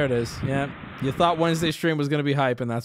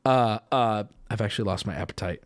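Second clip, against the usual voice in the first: a hint of a put-off caveman, pitched down; retold second caveman; 9 semitones lower, faster than usual. Second caveman declining dinner in a commercial, lightly imitated. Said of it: "the other caveman goes".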